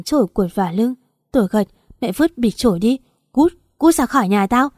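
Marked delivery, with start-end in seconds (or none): 2.0-4.7 higher and louder, throw her out; a mother's raging order to get out; furious shout. Acted. Mother screaming at her daughter to leave, furious.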